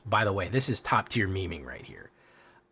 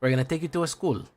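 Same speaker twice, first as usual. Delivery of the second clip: put-on quicker, higher Latino-accented English; 5 semitones higher, faster than usual. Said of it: "you're gonna add a school".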